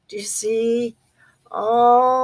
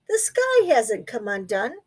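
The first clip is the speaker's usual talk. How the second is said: reassuring. Acted. Big Mouse comforts.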